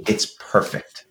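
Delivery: breathed out as a whisper; hushed, reverent last word. Real, not acted. Closing praise of the song to co-hosts, whispered.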